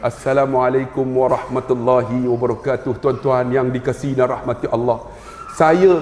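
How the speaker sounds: salam ceramah rendah dan terkawal; ceramah berlembut. Retold or imitated. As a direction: kawal suara, lembut macam di Johor. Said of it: "lima minit saya kontrol". (cuba berceramah lembut di Johor)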